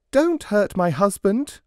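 high, loud desperate cry. Acted. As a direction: plead out loud to save him. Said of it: "the woman cried out".

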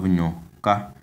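nyoka with pitch lifted on the final a; nyoka, ny as one sound, rising at the end; high final tone. Shown as a demonstration. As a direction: model nyoka, last syllable high. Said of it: "tone is on the last vowel".

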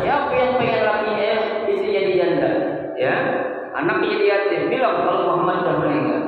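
acted warrior's warning, mildly heated; sword-waving threat. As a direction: throw down a challenge to the crowd. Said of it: "uyung-uyung di pedang".

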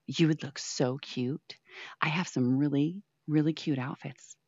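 hushed coaxing to the pet; whisper. Real, not acted. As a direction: whisper the temptation. Whispering temptingly to the cat.

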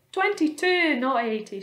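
high, loud earthworm correction; mild shriek. A narrator's reading. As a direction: shriek the first words, then ease off. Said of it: "shrieked the earthworm".

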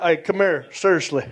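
David Sanders. Retold or imitated. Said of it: "he says this a lot".

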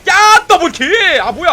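loud, high, drawn-out cheer for the double kill. Real, not acted. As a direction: yell it out slowly, thrilled. 더블킬 순간 환호. (길게 끌며 높고 크게 환호)

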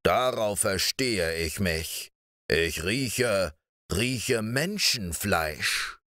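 a menacing ogre savouring the scent; eerie giant. Acted. Giant insists he smells flesh.

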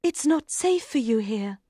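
high, pleading character voice; urgent queen. Acted. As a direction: urge him to flee. Queen urges knight to flee.

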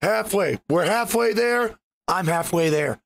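rough, worn-out voice; hoarse throat. Real, not acted. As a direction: talk through a wrecked throat. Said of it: "My throat is wrecked today".

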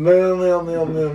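high, loud cartoon squeals; rat squealing. Shown as a demonstration. Director shows the rat at the open closet, squealing. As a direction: squeal it over and over. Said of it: "And then".

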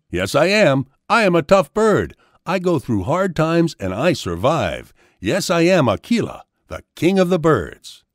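lightly voiced, self-proud peacock. A narrator's reading. Peacock boasts in character.

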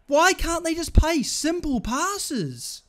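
high, loud and drawn out; exasperated complaint. Real, not acted. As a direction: drag the question out in real frustration. Raging at bad passes in game.

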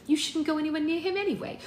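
high, loud scolding; snapping. A narrator's reading. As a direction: snap the warning out, pitched high. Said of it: "snapped Lilith".

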